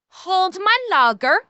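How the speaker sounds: lightly put-on German accent; hint of a German accent. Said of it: "I'll try to do a German accent here".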